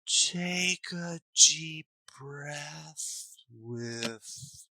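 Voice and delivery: put-on a parent too calm for an upset kid; soft drawn-out soothing to an agitated child; mismatched calm. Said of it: "such a mismatch between those two".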